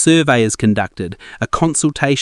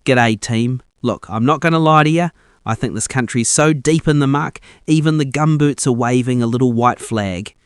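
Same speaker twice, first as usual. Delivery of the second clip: put-on polite New Zealand accent. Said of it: "soft and suspiciously polite New Zealand accent".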